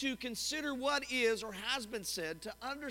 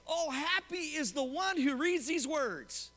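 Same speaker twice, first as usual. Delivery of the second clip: happy reading; 3 semitones higher, slower than usual. Pretend. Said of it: "So you could actually say".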